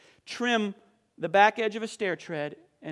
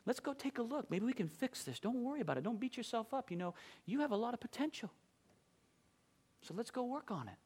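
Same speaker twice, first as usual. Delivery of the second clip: much softer, gentle and kind; reassuring boss; 14 dB quieter than usual. Retold or imitated. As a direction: soothe the upset young worker. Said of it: "And he said".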